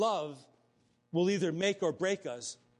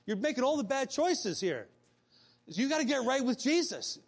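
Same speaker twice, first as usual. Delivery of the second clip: rising firmer as it goes, a bit higher; confronting friend; 5 semitones higher than usual. Retold or imitated. Friend Lenny confronting Rick about his lifestyle, firm. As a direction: lay it on him straight, building. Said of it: "confront me".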